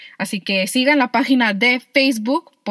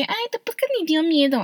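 high nasal-free geeky whine, pitched up; nerd voice; 7 semitones higher than usual. Retold or imitated. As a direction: read it like a mocking dork. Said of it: "así los voy a leer con voz de ñoño".

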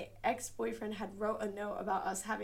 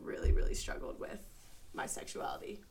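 whispered. Real, not acted. Sensitive remark about her mom.

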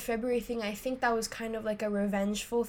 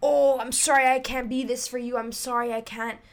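pity party; 2 semitones higher, 4 dB louder than usual. Retold or imitated. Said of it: "it became a pity party".

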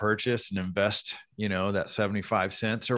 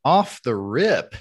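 announcer voice; 2 semitones higher, 5 dB louder, much slower than usual. Pretend. Announcing the podcast segment.

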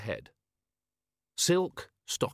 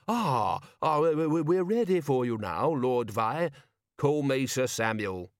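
flustered Ridcully; 3 semitones higher than usual. Acted.

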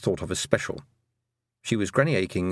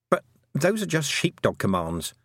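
dismissive; 5 semitones higher than usual. Acted.

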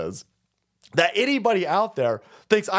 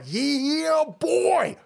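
higher, hyped mock battle cry; hammed-up pumped Christians; 7 semitones higher than usual. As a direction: play a revved-up churchgoer ready to fight. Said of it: "Christians going".

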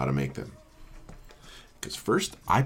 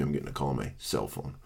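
mock self-important; 7 semitones lower, 9 dB quieter, faster than usual. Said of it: "I mean, excuse me".

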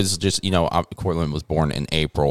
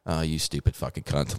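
softer, under-the-breath mock retort; muttered insult; 3 semitones lower, 8 dB quieter than usual. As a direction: grumble the insult half to yourself. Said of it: "I'm just like".

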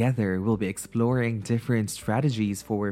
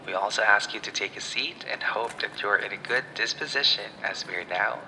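pilot announcement. Pretend. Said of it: "this is your captain speaking".

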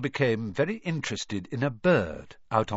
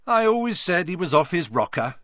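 impressed; 7 semitones higher, 6 dB louder than usual. A narrator's reading. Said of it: "looking quite impressed".

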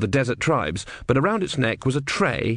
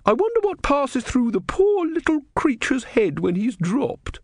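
very high female character voice; pitying woman. Acted. Woman looking at the eagle and pitying the tortoise, high voice. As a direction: pitch far up, tenderly wondering.

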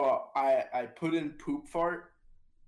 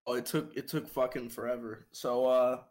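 eating crunchy fried chicken. Real, not acted. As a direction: mouth full of chicken. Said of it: "sorry, I'm eating chicken".

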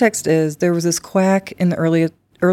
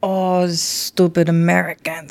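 slow, badly faked French accent; attempted French accent; slower than usual. Playing French at stupid American, badly faked French accent. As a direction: drag it out in mock French. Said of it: "Was that supposed to be French?".

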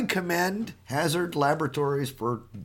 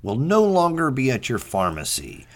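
deadpan newscaster voice; news read; 4 semitones lower than usual. Acted. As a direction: read it like a serious news anchor. Mock news bulletin.

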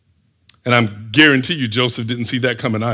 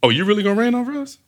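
quick, higher-pitched scoffing question; skeptical challenge; 6 semitones higher, much faster than usual. Acted. Brothers answering Joseph's dream, rising scornful disbelief. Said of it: "I feel like that was the inflection in their voice".

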